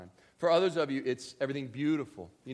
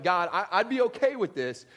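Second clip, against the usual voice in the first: higher, louder pleading prayer; mock prayer of a frustrated believer, loud and pleading; pleading with God; 6 semitones higher, 8 dB louder than usual. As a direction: beg God to show you why. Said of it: "people that are like".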